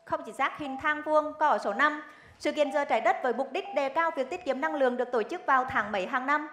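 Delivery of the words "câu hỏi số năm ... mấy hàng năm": crisp quiz host read; game show host. Acted. Rapid-fire quiz round.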